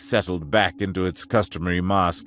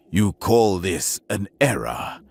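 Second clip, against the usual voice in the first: slow, lowered and menacing; low vicious hiss; 3 semitones lower than usual. Acted. Captain confronting the alien, low and vicious. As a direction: make the question cut. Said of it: "a low, vicious hiss".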